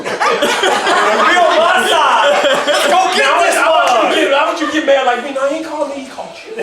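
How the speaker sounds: a half-joking mother urging anger; mock riled-up mom. Playing mom egging him on.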